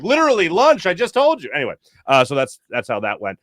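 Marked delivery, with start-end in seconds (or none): 0.0-1.5 exasperated retort. Retold or imitated. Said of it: "I was like".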